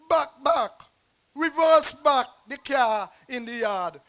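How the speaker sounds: loud commands across the yard; calling out orders. Retold or imitated. Poet voicing himself shouting at the boy in the car. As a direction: call out to the driver to back up.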